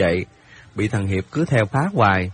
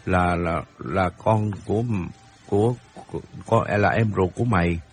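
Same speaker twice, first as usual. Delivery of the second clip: low, halting, searching for words; flustered backpedalling with repeated false starts; hesitant stammer; 4 semitones lower, 4 dB quieter than usual. Acted. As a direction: stumble through an awkward correction. Friend flustered after wrong assumption.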